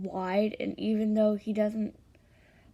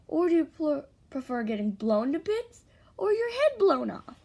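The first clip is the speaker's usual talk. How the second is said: threat; 5 semitones higher, 5 dB louder than usual. A narrator's reading. Threat to Bakugo in story.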